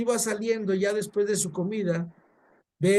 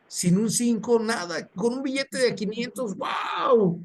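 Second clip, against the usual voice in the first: amazed exclamation; 3 semitones higher than usual. Real, not acted. Preacher marvels at the gift.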